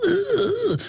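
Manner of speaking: very high, drawn-out imitated ooh; little mocking high moan; mock trendy call. Trendy's call on seeing him, mimicked high ooh. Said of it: "they make that as their, as their call".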